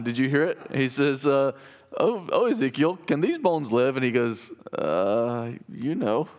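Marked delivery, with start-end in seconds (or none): 2.0-4.0 video's God voice. Retold or imitated. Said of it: "that video depicted that line". 4.8-6.3 hesitant shrug. Retold or imitated. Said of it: "that video depicted that line".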